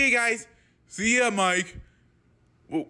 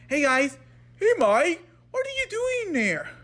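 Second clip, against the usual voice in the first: greeting pitched up, climbing high on the question; goofy raised-pitch character greeting; put-on higher voice; 5 semitones higher than usual. Shown as a demonstration. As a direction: squeak the greeting up high, playful. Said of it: "I'm trying to sound like this".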